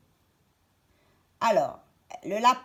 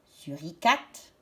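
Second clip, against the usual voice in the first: slow syllables; 5 semitones lower, slower than usual. Shown as a demonstration. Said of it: "J'entends toutes les syllabes".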